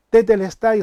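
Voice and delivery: a half-voiced cry of triumph; mock victory shout. Shown as a demonstration. Preacher showing Jesus' victory cry, a half shout. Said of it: "y lo grita así".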